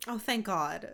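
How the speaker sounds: ordinary delivery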